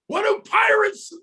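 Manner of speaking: high-pitched shout; shouted sideline call; coach's cheer call. Retold or imitated. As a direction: start hollering a chant to the team. Coach starting next cheer.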